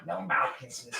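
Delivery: soft no to the licking dog; soft refusal. Real, not acted. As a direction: hush her away gently. Dog trying to kiss.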